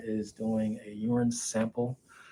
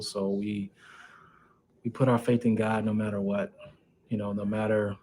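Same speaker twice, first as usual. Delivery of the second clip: muffled through a mask; talking behind a face mask. Real, not acted. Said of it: "excuse the mask".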